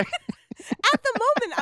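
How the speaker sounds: loud and high, drawn out slowly; loud, slow emphasis; emphatic. Real, not acted. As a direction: lean hard on it, slowly. Emphatic storytelling.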